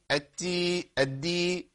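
التي airy, then الدي voiced; ta versus dal contrast. Shown as a demonstration. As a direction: contrast the breathy t with the firm d. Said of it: "الفرق بين الاتنين". (مقارنة بين التاء والدال)

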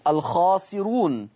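drawn-out "الخاسرون" with a softened, light ra; thinned ra. Shown as a demonstration. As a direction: recite "الخاسرون" slowly with a light ra. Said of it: "يرقق ورش الراء".

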